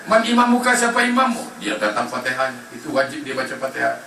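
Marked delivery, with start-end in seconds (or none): 0.1-1.6 higher, commanding question; questioning angel. Acted. Angels questioning the dead in the grave, higher.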